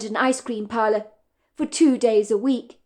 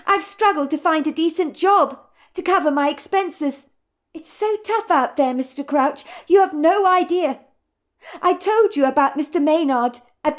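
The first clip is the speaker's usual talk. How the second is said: higher, grateful and resigned; young woman's voice; 5 semitones higher than usual. Acted. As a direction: thank him while holding it together. Madison thanks landlord.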